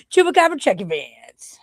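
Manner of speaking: laughing whisper of the brand name; whispered slogan. Shown as a demonstration. Repeating the business name for a viewer, whispered. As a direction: breathe it out in a giggly whisper. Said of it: "What's up, Rob?".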